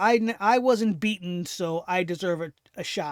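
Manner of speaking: ordinary talk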